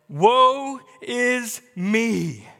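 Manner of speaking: loud, high, very slow cry; dramatic drawn-out outcry; Isaiah's lament. Acted. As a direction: wail it out, stretching every word. Acts out Isaiah's cry of dread.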